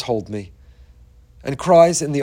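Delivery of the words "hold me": put-on quiet child's plea. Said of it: "And now says".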